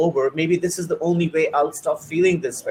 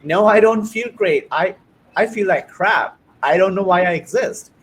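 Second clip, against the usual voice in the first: emotional outburst; 3 semitones higher, 5 dB louder than usual. Retold or imitated. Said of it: "I'm getting emotional now".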